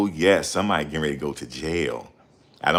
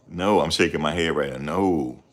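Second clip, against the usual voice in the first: ordinary talk, nothing marked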